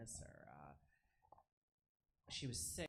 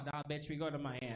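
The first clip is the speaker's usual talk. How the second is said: put-on brash boyfriend; 4 semitones higher, 7 dB louder than usual. Boyfriend answers, acted.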